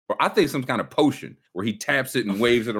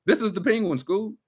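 excited; 11 semitones higher than usual. Real, not acted. Pointing out the villain.

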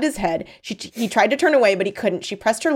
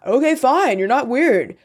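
mocking concession; 6 semitones higher, 5 dB louder than usual. A narrator's reading. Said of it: "He had to laugh".

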